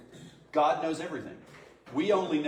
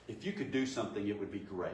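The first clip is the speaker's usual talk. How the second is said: timid plea; 5 semitones lower, 8 dB quieter than usual. Retold or imitated. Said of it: "the dad goes".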